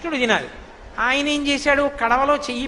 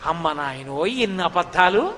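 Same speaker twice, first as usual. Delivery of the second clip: a touch of lower, slower disbelief; mild amazement; 6 semitones lower, slower than usual. Acted. Milkmaid stunned by Krishna's lies, mild amazement. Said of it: "అనుకున్న ఆవిడంది".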